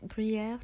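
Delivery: "Gruyere" pronounced in a weird, unfamiliar way; odd pronunciation. Real, not acted. Vlogger describing lunch omelet, "Gruyere" oddly pronounced. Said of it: "that pronunciation was so weird".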